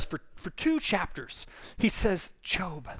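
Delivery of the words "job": gracious. Retold or imitated. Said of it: "I think super graciously".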